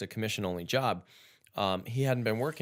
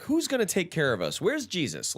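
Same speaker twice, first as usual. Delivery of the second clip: whiny mock plea; 8 semitones higher than usual. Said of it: "or like".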